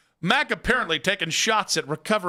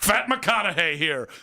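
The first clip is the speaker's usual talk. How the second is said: McConaughey impression. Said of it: "I'm McConaughey".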